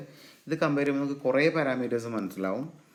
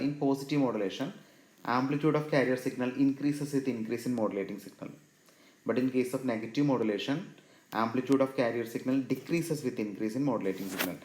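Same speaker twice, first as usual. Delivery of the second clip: reads the definition very slowly, word by word; slow enough for students to write it down; slow dictation; much slower than usual. Shown as a demonstration. Teacher dictating a definition to students, very slowly.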